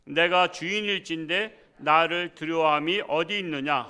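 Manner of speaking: slow, solemn reading aloud of scripture. Acted. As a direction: read the verse out slowly with weight.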